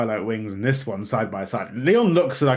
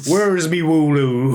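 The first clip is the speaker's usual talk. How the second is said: put-on British regional accent; 6 semitones higher, 6 dB louder, slower than usual. Accent talk, playful quote.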